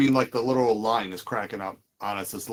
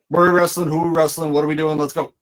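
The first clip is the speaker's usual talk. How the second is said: happy, eager fans; 2 semitones higher, 3 dB louder than usual. Retold or imitated. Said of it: "they're all happy".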